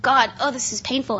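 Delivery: understated retold plea; quiet, mildly pleading prayer; Paul, pleading. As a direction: softly beg for relief, lightly acted. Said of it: "Paul pleaded with the Lord".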